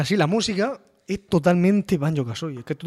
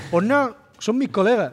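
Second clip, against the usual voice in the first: cartoon character voice; 5 semitones higher than usual. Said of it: "quoting the game character".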